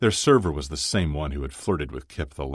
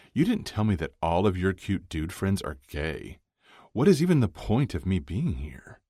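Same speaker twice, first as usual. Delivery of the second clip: higher, mock-aggrieved complaint; lightly voiced female friend, complaining; 5 semitones higher than usual. Maria complains to Kip about his friends, lightly aggrieved.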